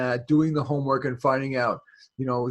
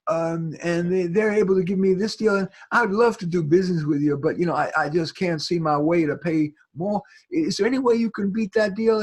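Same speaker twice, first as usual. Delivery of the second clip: lightly Southern; 3 semitones higher than usual. Retold or imitated. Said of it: "in my very Southern way".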